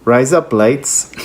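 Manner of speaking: slow hack-Australian "razor blades"; Australian accent. Shown as a demonstration. Player retrying the phrase to hear it, slow Australian accent. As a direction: sound out the fake Aussie slowly. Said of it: "try it again and you'll hear it".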